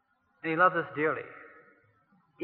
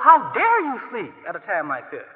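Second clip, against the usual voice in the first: indignant; 4 dB louder than usual. Pretend.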